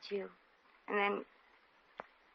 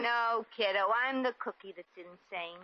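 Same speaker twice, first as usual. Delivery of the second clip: put-on American accent. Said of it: "your accent".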